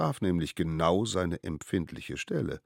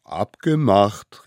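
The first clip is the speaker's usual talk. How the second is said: drawn-out, mildly eager call; understated group cheer; enthusiastic agreement; 4 semitones higher, 10 dB louder, much slower than usual. A narrator's reading. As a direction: agree slowly with relish. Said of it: "riefen die kleinen Wilden begeistert".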